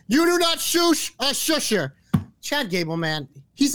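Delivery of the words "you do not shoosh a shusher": high, slow, hammed-up shout; a mock outraged high-pitched scolding; mock indignation. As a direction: scold him in a squeaky put-on voice.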